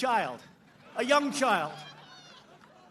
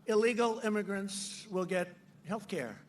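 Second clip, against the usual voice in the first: mock Biden; 4 dB quieter, slower than usual. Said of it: "He said".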